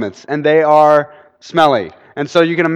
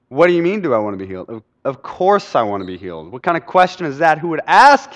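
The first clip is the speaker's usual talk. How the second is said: incredulous protest; 4 dB louder than usual. Retold or imitated. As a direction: start quick and disbelieving, end nearly shouting. Healed man protests the odd question.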